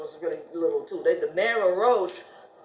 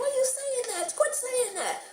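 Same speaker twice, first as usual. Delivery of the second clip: half-laughing outrage at the word; appalled protest; 3 dB quieter than usual. Retold or imitated. To her neighbor, scolding the slang, high laughing disbelief.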